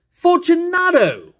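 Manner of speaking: high, loud and slow drawn-out call; called again. Acted. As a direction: call out long, into the dark. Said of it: "I called again".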